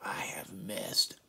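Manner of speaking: dismayed mock groan, rising to a high wail; hammed-up, drawn-out dismay; Puck. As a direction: stretch it slowly into a squeaky oh-no. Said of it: "Puck is in the background going".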